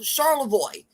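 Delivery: Charlevoix said the local way, ending in "voy"; local pronunciation. Shown as a demonstration. Giving an example of a tricky city name, Charlevoix ending "voy". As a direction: end Charlevoix on an English "voy". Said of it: "names of our cities that Barry will have trouble pronouncing".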